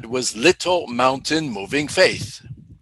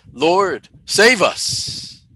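high, louder pleading cry; imitated frightened cry; 6 semitones higher, 5 dB louder, much slower than usual. Disciples begging Jesus in the storm, frightened cry. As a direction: cry out like terrified sailors. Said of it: "was Jesus pleased with their cry".

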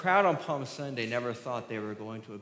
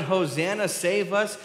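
raised, higher cry to be saved; crowd shouting; 5 semitones higher, 4 dB louder than usual. Retold or imitated. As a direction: call out like the cheering crowd. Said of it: "They shouted".

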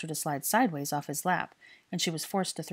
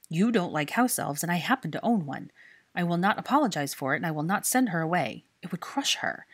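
loud, firm and unyielding; firm resolve; 5 dB louder than usual. Acted. Draco refusing Hermione to give up his elf, firm. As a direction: plant your feet and refuse. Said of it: "he said with a firm resolve".

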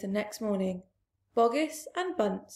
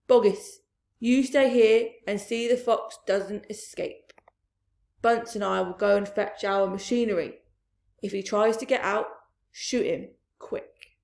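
commanding orders; 5 dB louder than usual. Acted. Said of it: "taking charge".

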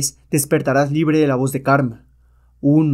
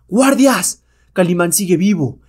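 high, loud call for the guards; a villain shouting for his guards; commanding shout; 4 semitones higher, 4 dB louder, slower than usual. Acted. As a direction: bellow for your guards.

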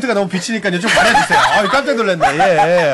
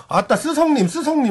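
higher-pitched Jeolla dialect call; imitated Jeolla dialect; 5 semitones higher than usual. Host imitating an actor calling his hyung, Jeolla dialect. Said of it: "호조 씨가 그 중간중간에 우리 쓰레기 형님 부를 때".

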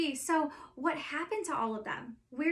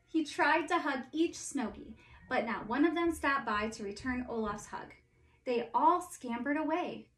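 story narration. A narrator's reading. Reads Frozen story aloud.

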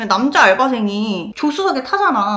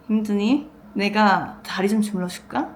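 mock lecherous; 2 semitones lower, 5 dB quieter than usual. Imagined lecherous boss offers a leg massage, quietly sleazy. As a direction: lightly act out a creepy insinuation. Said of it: "막 음흉하게".

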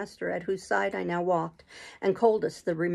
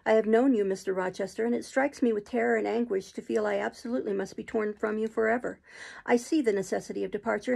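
passionate outburst; 2 semitones higher than usual. Acted. Jane's impassioned outburst.

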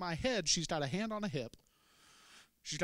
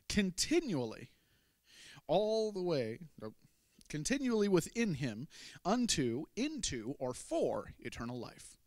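proclaiming; 2 semitones higher than usual. Acted. Promise continued after cough.

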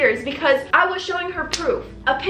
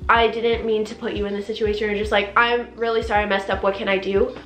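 lower, gently sorry voice; imagine a sincere apology, pitched down; apologetic; 3 semitones lower than usual. Pretend. Hairdresser owning up to client, apologetic.

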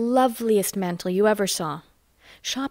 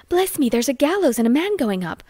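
startled, higher and eager; alarmed cry; 6 semitones higher than usual. A narrator's reading. Flo cries out to the carriage about a gallows. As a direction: blurt out the shocking sight. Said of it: "then Flo cried out".

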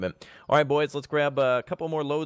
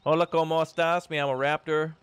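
mock Spanish; 5 semitones higher than usual. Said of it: "I don't speak Italian".

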